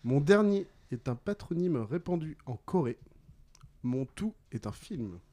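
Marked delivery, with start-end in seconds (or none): 0.0-3.0 deliberate, phrase-by-phrase clue; measured riddle reading. Real, not acted. Quizmaster gives players the last clue, deliberately. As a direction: let each part of the clue land.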